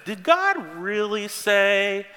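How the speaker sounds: lightly voiced tempting serpent. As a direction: tempt her slyly, drawing it out. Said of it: "the serpent says".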